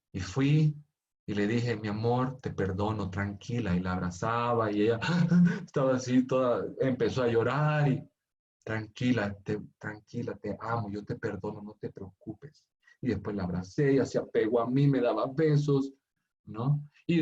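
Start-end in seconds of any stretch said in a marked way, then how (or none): 1.8-3.7 gentle forgiveness. Retold or imitated. Father forgiving crying daughter. 8.6-12.6 put-on rock a crying child with soft words; tender hush. Father hugging crying daughter.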